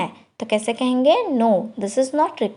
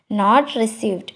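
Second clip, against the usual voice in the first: slow, careful model phrase; slow teacher demo of the English; 3 semitones lower, much slower than usual. Shown as a demonstration. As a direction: spell it out slowly for learners. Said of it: "slow model phrase".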